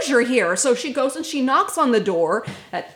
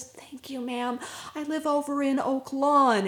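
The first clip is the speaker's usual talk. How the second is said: put-on timid girl; 4 semitones higher, 3 dB quieter than usual. Girl thanks them.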